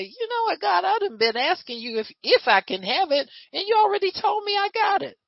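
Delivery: high, fast, confident praying to God; mock believer thanking God for what is already given; bold prayer. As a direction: claim it boldly in prayer. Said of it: "we get to say".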